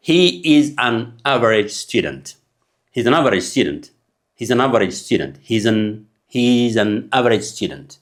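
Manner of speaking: slow, "an" said as a weak schwa-n; reduced an. Shown as a demonstration. Teacher drilling the phrase for learners. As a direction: link "an" into "average". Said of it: "teaching demo of an".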